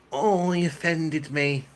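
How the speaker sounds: high, slow, whiny mockery; mock offended whine. Streamer mocking offended viewers in a high whine. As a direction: pull a prissy offended face in the voice.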